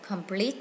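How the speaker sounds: complete stressed on the second syllable, com-PLETE. Shown as a demonstration. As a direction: put the weight on PLETE in complete. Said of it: "nhấn âm hai".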